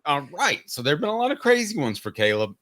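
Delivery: talking through the hiccups; hiccuping between words. Real, not acted. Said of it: "I have the hiccups on the air".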